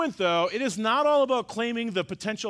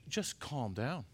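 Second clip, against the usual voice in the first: much softer, hushed and calming; lightly voiced God soothing a panicked pastor; a hint of a gentle God, very soft; voicing God; 4 dB quieter than usual. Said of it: "And he's like".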